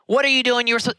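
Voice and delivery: the wrong, harsh tone to a struggling worker. Shown as a demonstration. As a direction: snap at them like an irritated boss. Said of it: "Versus like, you know".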